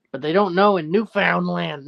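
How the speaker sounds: Newfoundland as "new-FOUND-land", stressing found; wrong pronunciation. Shown as a demonstration. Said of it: "No, it's Newfoundland".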